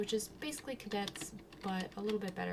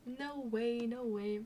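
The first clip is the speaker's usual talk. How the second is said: higher, disbelieving panic; mock panic; 5 semitones higher than usual. Hitting turbulence, higher panicked disbelief. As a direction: freak out at the turbulence. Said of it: "Freaked out".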